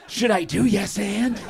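slow, softly mocking question; put-on hesitant lilt with a laugh; unconfident improviser. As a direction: mimic a timid improviser, drawing it out. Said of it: "the unconfident improv troupe".

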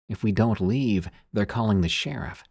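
flat monotone voice; lightly voiced flat monotone warning. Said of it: "It sounded real monotone".

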